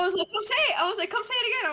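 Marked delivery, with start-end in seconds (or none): 0.3-0.8 retold dare. Retold confrontation with classmate. 1.1-1.7 retold dare. Retold confrontation with classmate.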